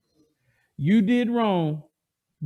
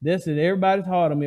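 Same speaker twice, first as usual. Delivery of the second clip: mock whining. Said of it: "We start to po mouth".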